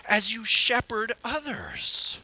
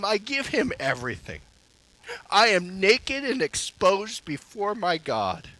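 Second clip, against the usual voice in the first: rising fervour; 5 dB louder than usual. Real, not acted. Building confession of surrender.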